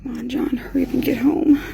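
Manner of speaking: pleading whisper. Real, not acted. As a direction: whisper it anxiously.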